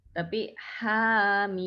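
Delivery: hamim drawn out slowly with long mim; correct hamim. Shown as a demonstration. Teacher giving students the correct reading, slow. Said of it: "Jangan dibaca hama juga".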